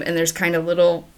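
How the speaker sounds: words pushed out through a beer burp. Real, not acted. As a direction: talk right through a burp. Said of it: "beer burp".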